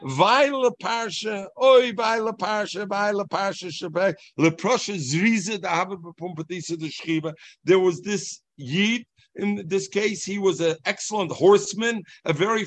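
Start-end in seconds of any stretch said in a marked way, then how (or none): 0.0-7.3 mock wailing lament. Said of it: "going in the street and he said".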